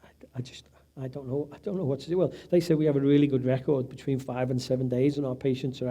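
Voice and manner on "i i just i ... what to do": lost. Retold or imitated. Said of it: "I'm like".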